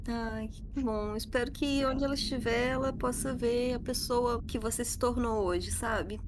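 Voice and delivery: fighting back tears; holding back sobs. Real, not acted. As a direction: voice choked with emotion. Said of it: "tô emocionada".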